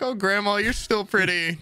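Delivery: sweet reassuring. Retold or imitated. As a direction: coax her with a sweet lift. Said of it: "I'm like".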